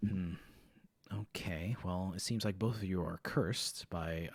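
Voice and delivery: slow soft whisper. Acted. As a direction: murmur it thoughtfully. Teacher diagnoses quietly.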